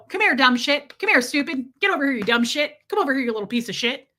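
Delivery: mock summons thrown out with mild contempt; retold contemptuous dad. Dad calling his daughter's pets over, lightly mimicked contempt. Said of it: "That's how my dad talked to my animals".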